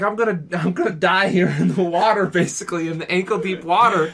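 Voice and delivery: mock a friend's overblown panic; mock freaking out. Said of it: "starts freaking out".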